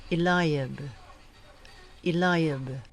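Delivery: "Eliab" as ee-LIE-ab, middle syllable like "lie"; first pronunciation. Shown as a demonstration. Trainer shows lectors a correct name, "Eliab" said ee-LIE-ab. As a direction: stress the long i in "Eliab": i-LIE-ab. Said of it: "It is also correct to say".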